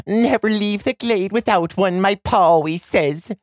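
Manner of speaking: put-on proud young girl. A narrator's reading. Girl quotes her pa.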